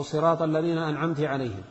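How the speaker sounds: "أنعمت" said an'amti, with i on the t; feminine address error. Shown as a demonstration. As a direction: recite with kasra on the ta of "أنعمت". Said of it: "لأنه صار الخطاب".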